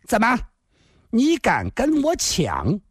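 high, slow, menacing challenge; stern, harsh voice. A narrator's reading. Glaring fat woman challenges her rival, in a harsh voice. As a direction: draw the challenge out high and fierce. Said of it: "厉声地说道".

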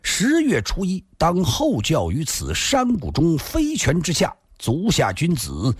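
lightly declaimed formal letter; formal letter reading. A narrator's reading. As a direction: read out the challenge letter ceremoniously. 信上写的是.

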